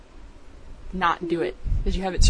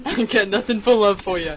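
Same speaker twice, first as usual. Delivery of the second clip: put-on Brooklyn accent. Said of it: "do some Brooklyn accents".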